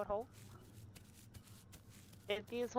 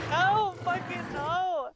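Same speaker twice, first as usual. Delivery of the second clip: excited correction; 6 semitones higher, slower than usual. Real, not acted. Laughing correction.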